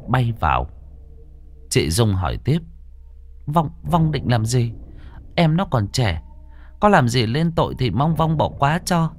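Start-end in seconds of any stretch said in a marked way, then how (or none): 3.5-9.1 pleading earnestly. Acted. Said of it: "thành tâm xin xỏ hết lời".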